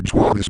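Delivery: "joy this" with a swoosh between the words; glitched "joy this". Shown as a demonstration. Showing the same problem with joy, "joy this" with a swoosh. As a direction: let "joy" break into a swa noise before "this". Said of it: "The same problem occurs with joy".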